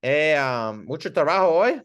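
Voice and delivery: curious rising question; sympathetic question. Shown as a demonstration. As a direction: ask with real interest. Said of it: "Or I might say".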